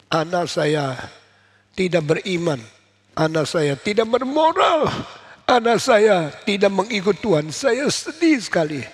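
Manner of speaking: a mother breaking down over her son; anguished lament. Acted. Monica tells priest her grief.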